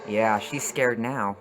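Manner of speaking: loud, slow, triumphant; gleeful shout. Real, not acted. Viewer cheers at the screen that the villain is scared, loud and slow. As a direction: crow it out loudly, savouring it.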